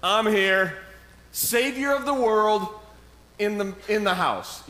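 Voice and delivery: high, loud hammed-up announcement; playful Jesus entrance. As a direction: burst in like a hype man. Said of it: "He's like".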